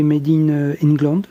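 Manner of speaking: put-on a playful English accent on Made in England. Reading the label on his saddle, mock English accent. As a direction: say it in a jokey English accent, a light touch. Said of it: "avec mon super accent anglais".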